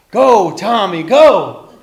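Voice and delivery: full-voiced rallying cheer; loud cheering. A narrator's reading. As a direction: belt it out to urge a friend on. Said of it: "And they cheered".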